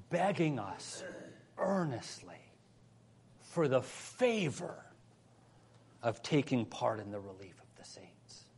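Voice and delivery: soft reading with long pauses between phrases; measured scripture reading. Real, not acted. Preacher reading verse four to the church, measured and soft. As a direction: read the verse quietly, letting each phrase settle. Reads verse, then repeats it emphatically.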